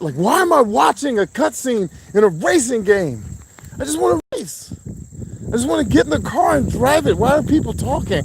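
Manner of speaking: high, whining falsetto gripe; whiny high complaint. Pretend. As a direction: whine like a bored kid at a cutscene. Whiny rant about cutscenes.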